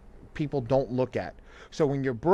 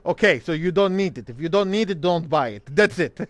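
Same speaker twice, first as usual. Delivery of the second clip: imitating dad, louder and higher; mock-stern dad, flat verdict; dad laying down the law; 4 semitones higher, 5 dB louder than usual. Dad telling his son not to buy it, louder mock-stern. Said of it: "He's like".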